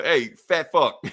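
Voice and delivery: put-on loud, slow drunken yell at a friend; mock yell. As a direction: bellow it out like an angry drunk. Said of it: "Thor yells at him".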